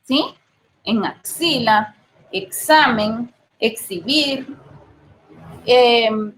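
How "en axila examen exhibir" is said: slow, clear KS in axila, examen, exhibir; axila, examen, exhibir slowly demonstrated with KS. Shown as a demonstration. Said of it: "que suena como X".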